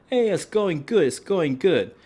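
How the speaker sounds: diner voice. Retold or imitated. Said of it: "You're like".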